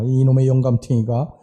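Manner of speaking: lightly voiced old woman nagging; a hint of a cranky grandma muttering back; grumbling old wife. Deaf wife grumbles at her husband, lightly voiced nagging. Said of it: "할머니가 뒤에다 대고 이렇게 이야기를 합니다".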